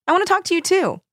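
bubbly, high-pitched delight; exclaiming. A narrator's reading. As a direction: gush it, voice pitched right up. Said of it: "Kimmy exclaimed".

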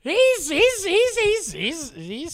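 a mock Trump stammer that trails off; Trump impression. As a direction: sputter like Trump grasping for words. Mocking Trump after "You're like Trump.

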